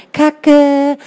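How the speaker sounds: high, loud startled outburst; shouted curse. Acted. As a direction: blurt it out in shock. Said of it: "Buchse und ich riefen".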